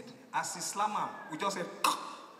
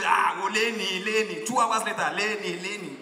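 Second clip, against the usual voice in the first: egging on; 7 dB louder than usual. Retold or imitated. Mushin boys cheering the fight on, loud chant.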